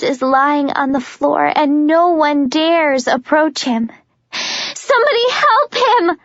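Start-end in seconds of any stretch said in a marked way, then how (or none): 4.3-6.2 high desperate scream. Acted. Juliet screaming to the soldiers for help, frantic. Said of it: "I scream".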